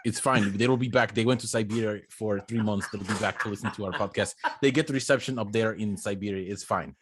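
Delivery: put-on Russian accent. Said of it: "could you give us some of that Russian accent?".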